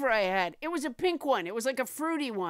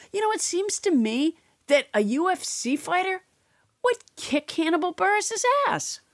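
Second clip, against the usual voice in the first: loud joking aside; 4 semitones higher, 5 dB louder than usual. Acted. Joke aside in promo voice.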